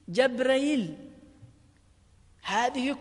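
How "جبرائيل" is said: جبرائيل with the glottal stop eased into a glide; softened hamza. Shown as a demonstration. Teacher giving the fifth reading, جبرائيل with eased hamza. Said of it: "الوجه الخامس بالتسهيل".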